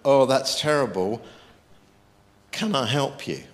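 caring, reaching out to help; compassionate offer. Shown as a demonstration. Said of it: "compassion wants to do something".

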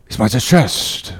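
soft, hushed aside; whispered. Acted. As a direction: whisper it to a shipmate. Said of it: "whispered Stubb".

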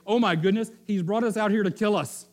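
panicked complaint. Acted. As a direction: whine that God wants you dead. Grumbling Israelites voiced.

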